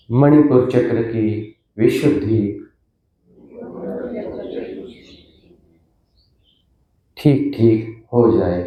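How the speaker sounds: solemn invocation with long pauses between phrases; measured, reverent prayer. Real, not acted. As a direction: call on the divine phrase by phrase, leaving silences.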